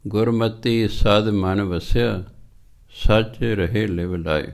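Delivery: slow, measured chanting of the verse; scripture recitation. Acted. Preacher reciting Sri Raag verse to the sangat, slow chant. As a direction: draw out each word of gurbani.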